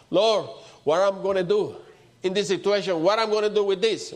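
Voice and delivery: crying out. Retold or imitated. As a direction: cry out as if at a loss. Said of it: "and we cry out".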